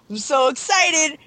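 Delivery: excited. Retold or imitated. Retelling excited wait for game.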